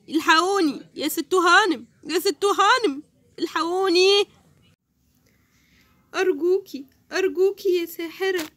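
lightly voiced pleading man. Uncle Saeed begging the witch for help. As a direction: beg like a frightened uncle.

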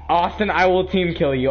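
threat through laughter; laughing threat. Real, not acted. Laughing mock threat to teammate.

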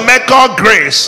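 rally the crowd to shout it back; preaching at full force. Real, not acted. Pastor urges the congregation to declare the verse, loud preaching call.

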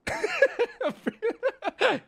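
rally the Italians in a mock New York Italian voice; put-on Italian accent. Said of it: "show that I'm Italian from New York City".

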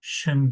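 ŞIN with back ı in place of i; wrong reading. Shown as a demonstration. Teacher showing what a misreading would be, back-vowel Şın. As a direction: say Şın with the mistaken dull vowel. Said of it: "Yanlış okundu".

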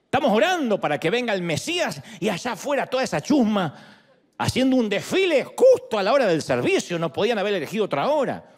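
hammed-up outraged Pharisee, breaking into a laughing shout; mock indignant Pharisee. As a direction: play the Pharisees fussing about the noise outside, half mocking. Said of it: "supongo que dirían". (imitando con burla a un fariseo indignado)

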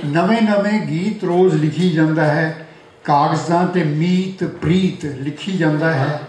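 rhythmic verse, line by line; poetry recitation. Acted. Poet honouring a friend turning eighty, rhythmic recitation. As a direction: recite each line to the room, pausing between them. Recites birthday poem to audience.

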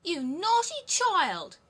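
high, loud, slow gloating hag; greedy old robber woman. Acted. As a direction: savour the plump child like a meal. Mother scolds her biting daughter.

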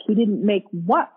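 retold question of disbelief, rising at the end; disbelieving denial. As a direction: query it as if it cannot be true. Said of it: "such a denial".

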